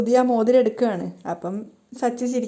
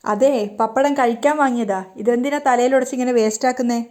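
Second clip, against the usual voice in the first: irritated; 3 dB louder than usual. Retold or imitated. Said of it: "സച്ചിക്ക് ദേഷ്യം വരുന്നുണ്ട്".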